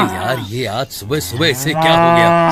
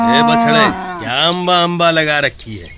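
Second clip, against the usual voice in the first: scolding call; 3 dB louder than usual. Acted. Milkman scolds the calf.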